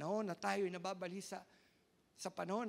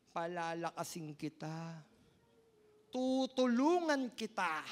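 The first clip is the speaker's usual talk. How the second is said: God's promise; 4 semitones lower, 5 dB louder, slower than usual. Acted. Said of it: "Sabi niya".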